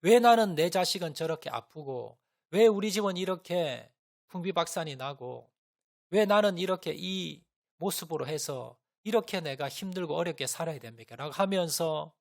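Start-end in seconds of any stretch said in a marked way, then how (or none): 0.0-11.2 retold crying out to God, louder on the why questions; a hint of sobbing despair as she pleads why me; tearful complaint. Mother in despair crying out to God, mildly tearful loud lament. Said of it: "펑펑 울면서".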